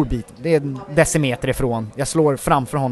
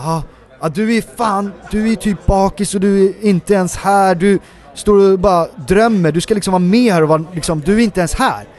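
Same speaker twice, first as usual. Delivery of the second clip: raised higher, louder tirade; retold scolding, pitched up and pushed; angry scolding; 6 semitones higher, 4 dB louder than usual. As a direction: tear into him for being hungover. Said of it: "han bara ryter till verkligen".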